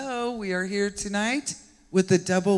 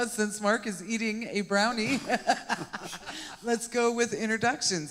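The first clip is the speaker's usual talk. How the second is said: laughing; 4 semitones higher than usual. Real, not acted. Laughing at Mark eating.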